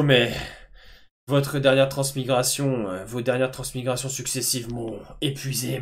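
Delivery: Grand-Père Régulus speaking through a mirror; very old man. Acted. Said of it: "vous entendez tous la voix de Grand-Père Régulus".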